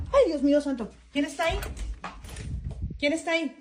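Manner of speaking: startled fear. Real, not acted. Woman alone at home hears a noise, startled fear. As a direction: call out nervously to whoever is there.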